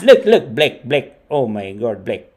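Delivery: a hint of his mom's broken English; excited mom pointing at the screen, lightly done; imitating mom. Son retells how his mom talks about the show, light imitation. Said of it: "she says it like that".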